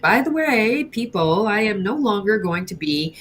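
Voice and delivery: lilting mock public announcement. Kids imitating a grand announcement to customers, mock declaring. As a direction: announce it to everyone, mockingly. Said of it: "go on an announcement".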